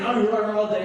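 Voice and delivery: mild mock yell; imitated yelling. Window man ranting about the car door, mildly yelling. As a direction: keep hollering about it, half in earnest. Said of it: "he's still yelling".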